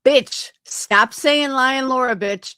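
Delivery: sharp angry demand. Real, not acted. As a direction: snap at her to stop. Angry callout at rival.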